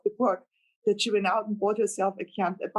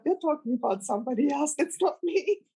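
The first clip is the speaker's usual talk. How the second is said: laughing disbelief; 6 semitones higher than usual. Retold or imitated. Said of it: "thinking to myself".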